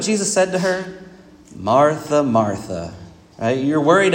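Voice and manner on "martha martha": a touch of weary frustration, trailing low; gentle sad rebuke. Retold or imitated. Jesus gently rebukes Martha for worrying, mild sad rebuke. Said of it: "frustration in the voice".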